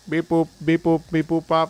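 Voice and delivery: robot noises. Pretend. Voicing a game robot.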